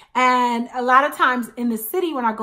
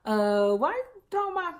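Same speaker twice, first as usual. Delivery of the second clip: baffled; 3 dB quieter than usual. Retold or imitated. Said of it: "And I was like".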